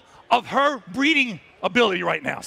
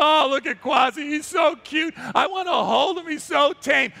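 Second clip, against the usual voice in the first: gushing visitors; 2 semitones higher than usual. Retold or imitated. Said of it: "Everybody looked at him and said".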